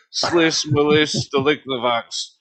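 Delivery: high, slow, loud mock Russian gibberish. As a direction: ham up fake Russian words. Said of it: "the only Russian words I know".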